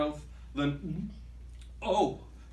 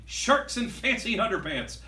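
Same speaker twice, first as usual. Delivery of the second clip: high, eager pirate announcement; delighted discovery cry; excited captain; 5 semitones higher than usual. Acted. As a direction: point it out to the crew with glee. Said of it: "The captain shouts".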